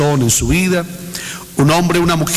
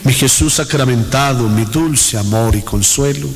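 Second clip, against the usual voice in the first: devotional invocation. Real, not acted. Leads a repeated devotional invocation.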